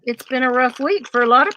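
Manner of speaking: talking around a needle; words round a needle held in lips; needle in mouth. Real, not acted. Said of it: "I have a needle in my mouth".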